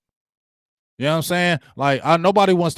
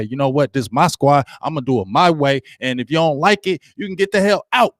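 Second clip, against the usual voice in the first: tough coach. Retold or imitated. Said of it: "I want a coach to come in here and say".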